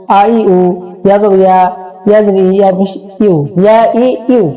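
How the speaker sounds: sing-song Arabic letter drill; measured classroom recitation, syllables drawn out at the ends; spelling drill recitation. Shown as a demonstration. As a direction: chant each letter and vowel in an even rhythm.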